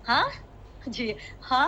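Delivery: imitating a questioning rising "ha?"; mock student tone. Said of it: "dia macam, ha?".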